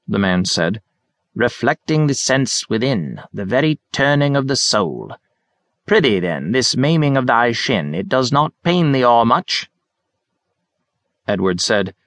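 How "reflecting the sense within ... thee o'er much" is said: put-on high, theatrical old man; hammy Shakespearean actor. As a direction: ham up the mock Elizabethan English. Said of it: "atrocious efforts to extemporize Shakespeare".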